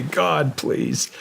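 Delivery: a half-laughing, hammed-up plea for rescue; laughing mock prayer. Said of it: "And I say".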